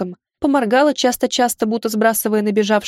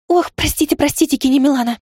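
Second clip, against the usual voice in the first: flustered rapid apology; 5 semitones higher than usual. Acted. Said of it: "запрочитала Лаура".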